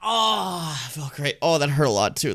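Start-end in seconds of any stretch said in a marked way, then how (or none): 0.0-0.8 long, high groan; drawn-out real groan of effort; stretching groan. Real, not acted. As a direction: groan through a sore stretch. Groaning while stretching sore body.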